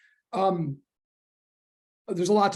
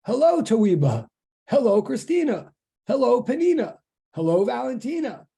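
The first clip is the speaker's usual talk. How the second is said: higher-pitched roll of hellos, each falling away; calling out greetings; 4 semitones higher, 4 dB louder than usual. Real, not acted. Teacher greeting students as they come into online class, calling out. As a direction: greet each one by name in a raised, lilting call.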